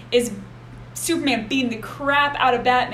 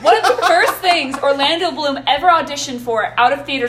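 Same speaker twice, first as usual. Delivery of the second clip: laughing; 3 semitones higher, 5 dB louder than usual. Real, not acted. Still laughing after the joke.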